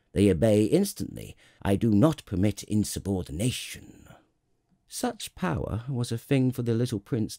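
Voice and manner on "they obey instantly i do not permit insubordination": firm, lightly pompous royal decree; authoritative king. Acted. King tells the prince the stars obey, firmly. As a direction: lay down the law, mildly imperious.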